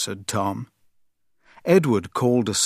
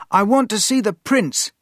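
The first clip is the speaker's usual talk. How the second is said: raised, higher cry at the gates; cried out; 10 semitones higher, 3 dB louder than usual. Acted. Tom at the palace gates, crying out. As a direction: call out eagerly to be let in. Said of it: "he cried".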